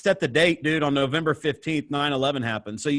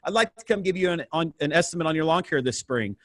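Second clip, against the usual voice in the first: cold call pitch; 3 semitones higher than usual. Retold or imitated. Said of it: "I just kept saying that".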